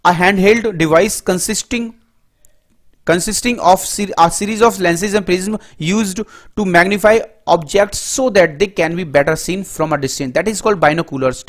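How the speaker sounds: very slow, word by word, as if for notes; dictation. Shown as a demonstration. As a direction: read the definition slowly so students can write it down. Slow dictated English definition. (धीमे बोलकर लिखवाना)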